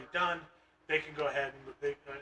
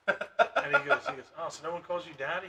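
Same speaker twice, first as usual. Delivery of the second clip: laughing. Real, not acted.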